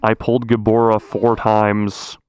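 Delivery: excited bragging. Real, not acted. Bragging about gacha pulls.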